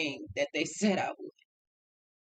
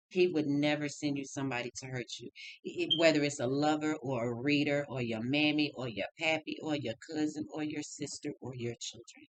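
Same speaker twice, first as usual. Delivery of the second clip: lower, steady reader's delivery; channeled tarot reading; 5 semitones lower than usual. Acted. Reader relaying Spirit's messages to viewers, lower and steady.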